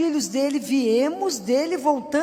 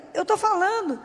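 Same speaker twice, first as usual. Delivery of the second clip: higher-pitched retold protest; insistent reply; 6 semitones higher than usual. Woman at prayer answering the stranger who interrupted, insistent.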